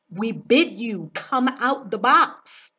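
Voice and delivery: coaxing call. Retold or imitated. People at the box coaxing her.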